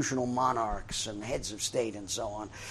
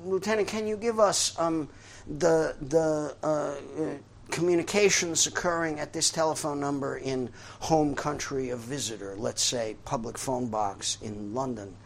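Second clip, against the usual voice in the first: official's request; 2 semitones higher than usual. Retold or imitated. Official asks lieutenant again.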